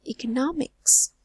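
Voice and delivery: "economics" with NOM longer and stronger; stressed syllable demo. Shown as a demonstration. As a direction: lean hard on NOM in "economics". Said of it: "remember to say it louder".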